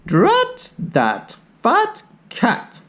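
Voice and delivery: put-on high, slow old lady grumble; grumbling old lady. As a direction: drag it out like a cross old lady.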